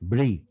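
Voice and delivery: ব্রি with a clear "ri"; teacher drilling the syllable ব্রি; syllable demo. Shown as a demonstration. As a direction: isolate ব্রি, r sounded right after the b. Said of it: "রিকারটা লাগান".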